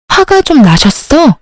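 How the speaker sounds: incredulous echo. Acted. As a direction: throw the husband's excuse back at him. 남편 말을 어이없어 되물음. (어이없다는 듯 느리게 되묻기)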